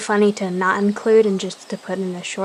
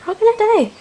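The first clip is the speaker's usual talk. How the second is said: higher, louder despairing cry; mild panic; 12 semitones higher, 5 dB louder, much faster than usual. Acted. Cat lamenting the deaths to the clan, mildly panicked.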